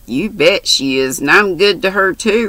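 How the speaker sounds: retorting. Acted. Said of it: "retorted Mary".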